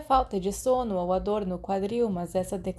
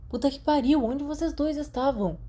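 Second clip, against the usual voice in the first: exasperated call; 7 semitones higher than usual. Acted. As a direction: call out to the late friends, annoyed. James shouting from train door.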